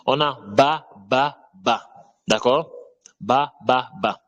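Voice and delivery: ba repeated crisply; ba with fatha demo. Shown as a demonstration. Teacher repeats ba with fatha for students. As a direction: model ba for learners to copy. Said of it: "je lis toujours ba".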